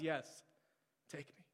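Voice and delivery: quiet, hushed yes, take me; soft surrender. Acted.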